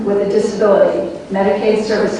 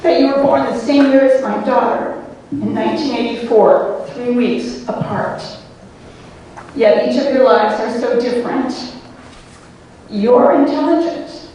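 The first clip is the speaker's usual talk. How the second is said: emotional; 3 semitones higher than usual. Real, not acted. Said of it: "I'm getting very emotional".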